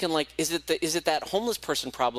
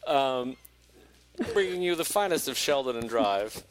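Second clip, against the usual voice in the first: mock studio host. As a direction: ham up a slick video intro. Continues the mock video host.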